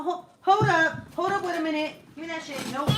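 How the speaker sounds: breaking into real laughter mid-sentence; laughing. Real, not acted. Mom laughing as she stops the kids mid-mischief.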